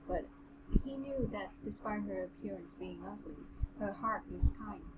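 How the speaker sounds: measured, even read-aloud voice; understated storybook narration; story narration. A narrator's reading. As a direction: read the passage out steadily.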